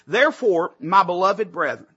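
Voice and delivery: deliberate, measured scripture reading; slow reading. Shown as a demonstration. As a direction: read the verse out slowly, with pauses. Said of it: "read this verse again slowly".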